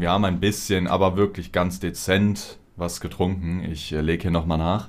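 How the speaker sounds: talking around a sip; words between sips of a drink; while sipping a drink. Real, not acted. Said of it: "ich muss erst noch mal einen Schluck trinken". (beim Trinken sprechen)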